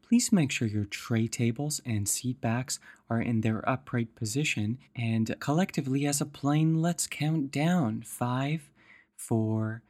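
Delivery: lightly voiced flight attendant; a hint of cabin announcement. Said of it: "we will begin our descent".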